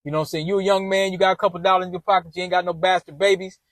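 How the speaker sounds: a hint of his mother hyping him up; mom's voice. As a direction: son quoting his mother reassuring him that he's a catch, in a low, soft voice. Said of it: "She's like".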